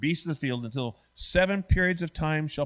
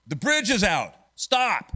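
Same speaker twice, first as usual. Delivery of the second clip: warning shout; 8 semitones higher, 5 dB louder, slower than usual. Pretend. Voicing a road warning sign.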